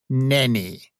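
aloof, dismissive refusal; snooty bored cat. Acted. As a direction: drawl it out, unimpressed. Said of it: "said the cat".

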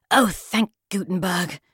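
slow, sarcastic relieved sigh; snarky. Acted. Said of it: "a snarky cry of".

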